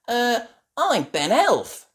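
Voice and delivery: high, slow, hesitant answer; nervous. A narrator's reading. Ben introducing himself to the robot, nervous. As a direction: answer the machine uncertainly. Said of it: "says Ben nervously".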